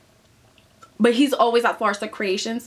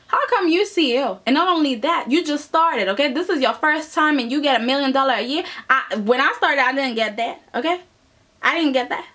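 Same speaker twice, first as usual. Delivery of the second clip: indignant rant; 3 semitones higher than usual. Retold or imitated. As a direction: complain like the one who earned it. Acted rival continues ranting.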